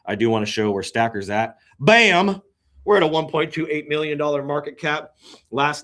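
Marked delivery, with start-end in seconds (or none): 1.8-4.2 excited reveal. Real, not acted. Shows off his coin's market cap.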